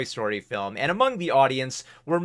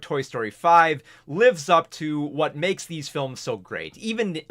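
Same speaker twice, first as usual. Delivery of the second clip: breathless, running out of air; gasping for air mid-sentence; out of breath. Real, not acted. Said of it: "I'm running out of breath here".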